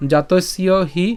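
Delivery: measured Sanskrit verse recital in short phrases; deliberate teacher's recitation with pauses; shloka recitation. Shown as a demonstration. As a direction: recite the whole verse slowly, drawing out long vowels. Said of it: "আমি যদি আবার প্রথম থেকে বলি".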